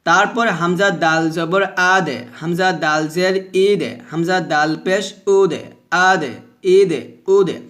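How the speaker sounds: spell, then a thin echoed d; measured recitation with bounced endings; thin qalqalah drill. Shown as a demonstration. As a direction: bounce each d lightly in আদে, ইদে, উদে. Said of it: "এইভাবে আমরা এখানে পড়ব".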